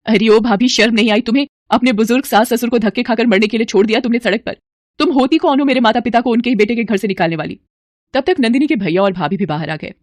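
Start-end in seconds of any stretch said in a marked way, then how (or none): 0.1-7.6 shouting. Acted. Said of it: "बाहर से चिल्लाई".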